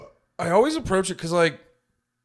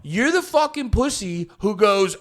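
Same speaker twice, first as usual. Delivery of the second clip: mock tirade; 6 semitones higher than usual. Mock tirade at film nerds.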